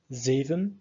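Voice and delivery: zeven with stress on ze, second e a weak schwa; stress on first syllable. Shown as a demonstration. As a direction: lean on ZE of zeven. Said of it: "the stress falls on the E part".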